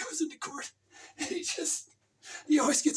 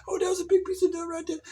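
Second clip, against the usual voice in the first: cat woman; 3 semitones higher, 5 dB louder than usual. Acted. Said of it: "She's a cat woman".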